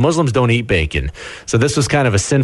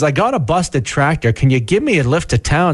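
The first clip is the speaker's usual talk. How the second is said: mock rural Canadian accent, pitched higher; local small-town accent; 5 semitones higher than usual. Host imitates small-town locals in a mock rural Canadian accent. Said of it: "Buddy says".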